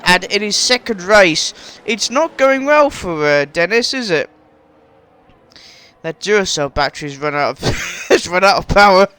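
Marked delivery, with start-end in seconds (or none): 6.0-9.2 real laugh interrupting the words; breaking into laughter. Real, not acted. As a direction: start deadpan, then crack up mid-sentence. Cracking up at own joke.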